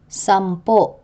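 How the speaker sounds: Sampo with stressed final -po, cut short by glottal catch; acute glottal stress. Shown as a demonstration. Teacher showing end stress, Sampo stressed last with glottal catch. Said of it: "pronounced with a glottal catch".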